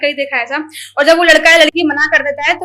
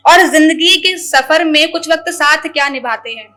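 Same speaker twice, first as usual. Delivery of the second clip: wistful, measured shayari; poetry recital; 3 dB louder than usual. Acted. About people who fall silent, wistful shayari recital. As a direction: linger on the repeated lines.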